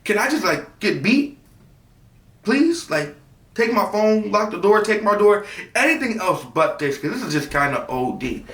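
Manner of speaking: high begging, bargaining; pleading with mom for any other punishment. Retold or imitated. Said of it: "I'm like".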